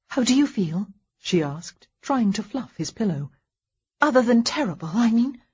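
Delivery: lightly voiced wife, gentle and coaxing; a hint of a nurse's encouragement; caring wife. Wife asks husband how he feels.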